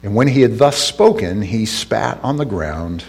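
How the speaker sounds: measured Bible reading with deliberate pauses; scripture reading. Acted. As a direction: read the verses aloud to a congregation. Reads scripture aloud.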